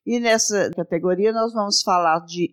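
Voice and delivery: slow, measured presenter delivery; segment announcement. Acted. Host introducing the third category, slow presenter voice. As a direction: announce each item clearly, with drawn-out pauses.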